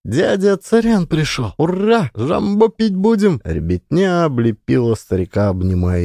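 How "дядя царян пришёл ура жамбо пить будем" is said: put-on high excited child's cry; joyful shout. A narrator's reading. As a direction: call out with delight. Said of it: "радостно крикнув".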